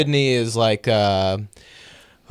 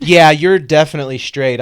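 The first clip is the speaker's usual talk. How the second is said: scoffing; 6 dB louder than usual. Acted. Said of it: "I scoffed".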